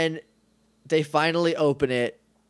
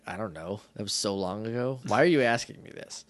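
imitating sister; 6 semitones lower, 5 dB quieter than usual. Imagined sister answering the call.

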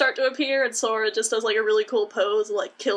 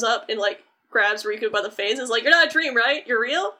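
frantic excitement. Retold or imitated. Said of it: "loses his mind".

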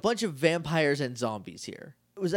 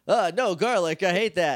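louder, hammed-up vampire recoiling; mock vampire disgust; 4 semitones higher, 5 dB louder than usual. Vampire shown garlic by Adam, hammy loud disgust.

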